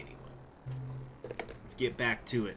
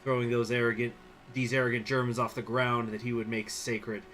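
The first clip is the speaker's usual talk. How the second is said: story narration. Acted. Reads event story aloud.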